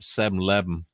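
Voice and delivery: "seven eleven" run together as "sebm lebm"; Southern pronunciation. Retold or imitated. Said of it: "he said".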